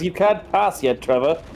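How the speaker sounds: lost soul. Acted.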